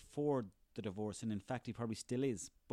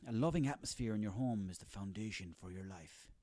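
mock wise quote; 5 semitones lower than usual. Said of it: "all these quotes like".

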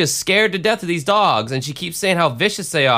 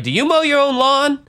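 put-on high-pitched old lady asking; old woman impression; 11 semitones higher than usual. Woman soliciting lawn work at the window, high-pitched impression. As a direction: put on her high, querying voice. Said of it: "And she's like".

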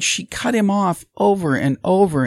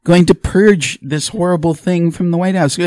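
loud, slow, hammed-up softball question; mock fawning moderator; 2 semitones higher, 6 dB louder, slower than usual. Mocking Stephanopoulos lobbing Biden an easy one, loud and slow. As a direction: drag out horrible like a sycophant. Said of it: "Where George Stephanopoulos is".

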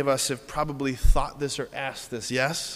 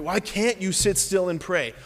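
higher-pitched mild nagging reproach; dripping accusation; 4 semitones higher than usual. Acted. Preacher acting the enemy nagging at prayer, mildly dripping. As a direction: needle them with the question. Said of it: "that's how the enemy speaks".

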